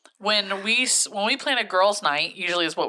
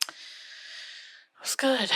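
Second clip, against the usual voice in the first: whispering; 6 semitones higher, 8 dB quieter, much slower than usual. Real, not acted. Whispered aside during the chat.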